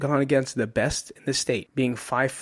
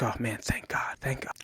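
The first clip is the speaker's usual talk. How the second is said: relieved inner thought; 9 dB quieter than usual. Retold or imitated. Exhausted wrestler thinking the beating is over, hushed relief. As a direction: let it out softly, utterly spent.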